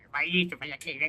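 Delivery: low mock grumbling of a coworker; imitando resmungo. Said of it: "o tempo todo resmungando". (resmungo baixo, imitado)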